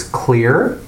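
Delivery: "clear" drawn out slowly as the key word; stress on clear. Shown as a demonstration. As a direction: lean deliberately on "clear". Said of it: "I want to emphasize the words".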